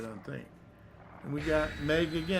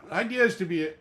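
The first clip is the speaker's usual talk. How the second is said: loud, high menacing killer voice; brutal killer voice; 6 semitones higher, 3 dB louder, faster than usual. Acted. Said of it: "I'm a method actor".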